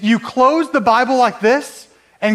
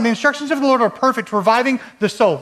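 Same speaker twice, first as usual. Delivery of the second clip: excited reading; faster than usual. Shown as a demonstration. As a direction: read it like it truly thrills you. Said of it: "let's break this down".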